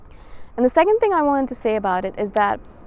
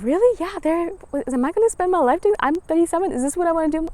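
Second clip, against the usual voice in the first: self doubt; 6 semitones higher than usual. Retold or imitated. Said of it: "thinking to myself".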